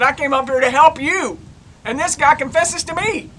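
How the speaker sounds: worked-up, retold indignation; indignant retelling. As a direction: complain in exasperated disbelief to a laughing partner. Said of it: "I was so mad".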